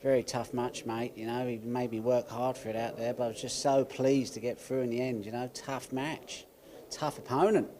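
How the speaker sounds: put-on a lightly done Aussie accent all through. The speaker talks his win over with the interviewer in an Aussie accent. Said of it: "in a full Aussie accent".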